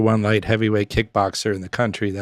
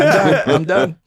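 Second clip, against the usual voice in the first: mock panic; 7 semitones higher, 7 dB louder than usual. Quitting sparring after head kick.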